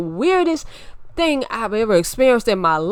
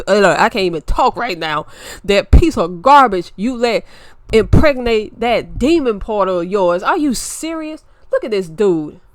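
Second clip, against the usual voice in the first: worked-up rant; 6 dB louder than usual. Real, not acted. Louder ranting at the story.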